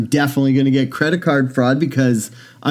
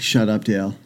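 put-on annoyed girlfriend; 5 semitones lower, 4 dB quieter than usual. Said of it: "And she's like".

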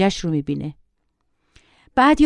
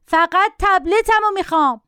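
put-on high-pitched, stubborn child's cry; mock yelling; 9 semitones higher than usual. A narrator's reading. Boy refusing any substitute for his tablet, mock yelling. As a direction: insist like a bratty boy yelling. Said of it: "داد زد".

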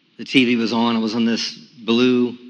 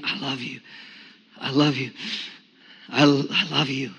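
breathless prayer; 6 dB quieter than usual. Retold or imitated. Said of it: "Barely being able to breathe".

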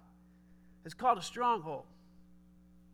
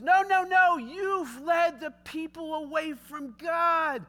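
stern rebuke; 4 semitones higher, slower than usual. Retold or imitated. Eli rebukes Ahab.

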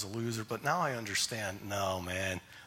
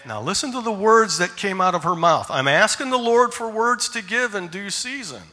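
preaching emphasis; 7 semitones higher, 11 dB louder than usual. Acted. Preacher stresses the girl's words.

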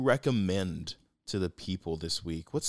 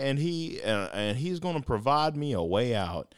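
high, fervent preacher; 8 semitones higher, 4 dB louder than usual. Retold or imitated. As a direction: preach it like a Southern revival pastor. Flood man refuses rescue, preacher voice.

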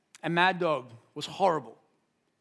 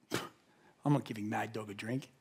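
laughing refusal; 8 semitones lower, 8 dB quieter than usual. Retold or imitated. Dad's inner refusal, laughing.

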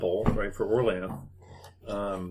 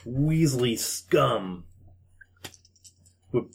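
dopey cartoon bellow; slower than usual. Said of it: "And the troll says".

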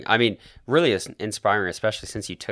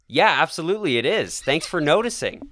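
put-on American accent; 5 semitones higher than usual. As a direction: play a Kiwi faking an American accent. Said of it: "change to, like, an American accent".

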